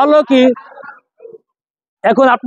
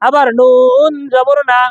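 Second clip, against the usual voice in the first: slow drill; slower than usual. Shown as a demonstration. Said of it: "slow drilled spelling for students".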